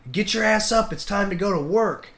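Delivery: rude wake-up. Retold or imitated. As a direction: roust him out of bed.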